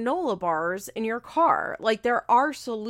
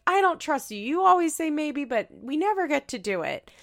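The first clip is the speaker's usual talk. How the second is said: put-on higher, louder childish whine; whiny kid voice; 6 semitones higher, 3 dB louder than usual. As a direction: complain like a kid denied TV. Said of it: "And they're like".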